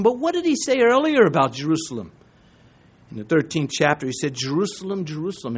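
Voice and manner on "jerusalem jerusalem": lament. Retold or imitated. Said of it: "it was a lament, a sob in that".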